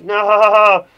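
long, loud, high "no"; cartoon victim's drawn-out scream; mock terrified cry. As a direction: yell it in hammed-up horror. Acting scary comic's victim.

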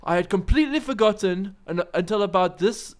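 put-on South African accent. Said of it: "that sounded very South African when you said it".

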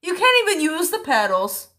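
loud exasperated yell. Real, not acted. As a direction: shout it across the car. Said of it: "Why are you yelling?".

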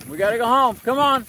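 loud, high call to come home. Real, not acted. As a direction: shout it across the yard. Calling dog home.

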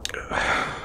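soft, breathy sigh; a quiet sigh before confessing; hesitant sigh. Acted. Working up to a confession, hesitant soft sigh.

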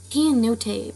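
Keanote in a light California accent. Shown as a demonstration. Announcing the intro the wrong way on purpose, California accent. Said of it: "say it with a California accent".

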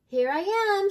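high, loud announcement of arrival; storybook grandma calling out her entrance. A narrator's reading. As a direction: call it out with a big lift. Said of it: "she called".

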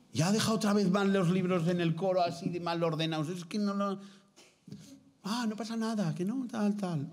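half-hearted scolding over messy books; mild mock grumble. Imagined nun complaining about books.

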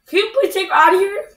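high, quick pleading question; pressed, impatient request; exasperated plea. Real, not acted. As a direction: ask mom urgently, without yelling. Asks mom after being told off.

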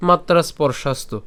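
"মাত্রা স্পর্শাস্তু" run together as matras-porshastu. Shown as a demonstration. Teacher offering the joined version, "মাত্রা স্পর্শাস্তু" without a break. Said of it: "অথবা একসাথে বলতে চাইলে".

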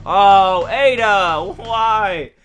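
playfully wailing; mock heartbreak. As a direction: plead with a lost sweetheart, melodramatically. Mock lament over game character.

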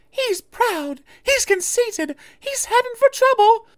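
very high, tearful coach voice; worried old coach sadly predicting trouble. A narrator's reading. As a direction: mourn his pride with a catch in the voice. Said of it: "Isabel sadly replied".

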